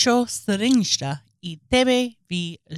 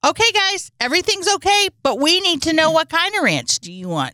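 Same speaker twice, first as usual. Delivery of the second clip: mock calming official; 7 semitones higher than usual.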